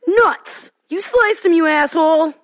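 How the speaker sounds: angry shout. Acted. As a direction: yell in outrage at the hit.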